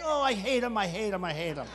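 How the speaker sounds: playful hate building to a shout; mock hatred. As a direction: start muttered, end roaring.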